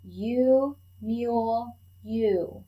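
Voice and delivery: each sound said slow and clear for the class to copy; teacher modelling A for repeat; vowel demo. Shown as a demonstration. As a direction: model the long vowel for echo. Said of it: "I'll say it, then you say it".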